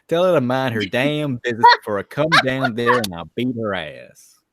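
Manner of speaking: loud, furious threat; angry threat. Acted. Friend reading the line aloud for the other, loud and angry. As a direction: bark the threat like you mean it. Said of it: "you want me to say it like that".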